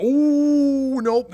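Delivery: high loud startled ooh then nope; surprised ooh. Real, not acted. Gamer missing the punch catch, startled high yelp.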